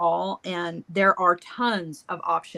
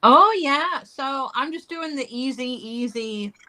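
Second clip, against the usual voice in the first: talking around a glue lid; mouth full; 5 semitones higher, 3 dB louder than usual. Real, not acted. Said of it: "I have the glue lid in my mouth".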